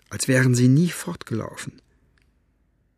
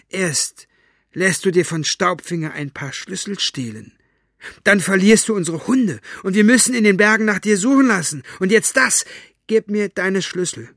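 put-on shrill, high scolding old woman; cold, contemptuous villainess tearing him down; mustache twirling villain; 9 semitones higher, 6 dB louder than usual. Mortola scolds Basta. (schurkische alte Frau, höhnisch und scharf)

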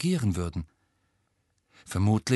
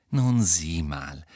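slow, lower, patient explaining; 4 semitones lower, much slower than usual. Acted. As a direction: speak like explaining one plus one to a toddler. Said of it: "so geduldig wie jemand". (geduldig und langsam, tiefer)

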